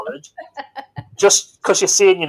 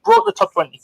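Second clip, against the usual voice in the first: much higher mock-proud repeat of "Broke the top twenty"; mock triumph; 12 semitones higher than usual. Host repeats the chart placing in a high mock-proud voice. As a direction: crow it back up high like a proud announcer.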